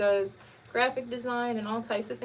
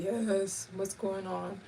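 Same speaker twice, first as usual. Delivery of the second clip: uninterested brother; 6 dB quieter, much slower than usual. Retold or imitated. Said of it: "He always sound like he don't wanna talk to you".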